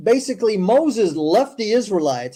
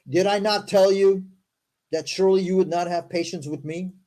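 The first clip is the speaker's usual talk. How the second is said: formal, deliberate read-aloud; scripture reading. Acted. Host reading Moses's story to listeners, formal recital. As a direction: recite the verses with careful emphasis.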